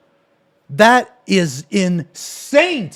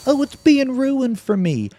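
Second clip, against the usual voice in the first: lightly mocking, higher-pitched whine; mocking imitation; 7 semitones higher than usual. Streamer parrots a rival's complaint from the video, mild mockery. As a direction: throw his complaint back at him, pitched up.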